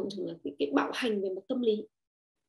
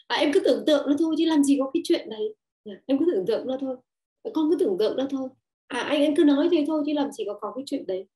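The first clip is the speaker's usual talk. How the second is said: dismissive brush-off; 2 semitones higher, 3 dB louder than usual. Retold or imitated. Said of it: "chúng ta nói với con là".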